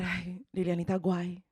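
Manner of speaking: mock Mexican accent, slow and pleading; lightly accented Mexican mom, scolding her daughter. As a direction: mimic a heartbroken Mexican mom, slowed down. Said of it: "and she said".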